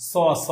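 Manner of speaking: "স, স" as a dental s, not sh; Kolkata pronunciation imitated. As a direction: repeat "স" with an s sound, demonstrating the regional habit. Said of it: "সটাকে স এর মতো উচ্চারণ করে".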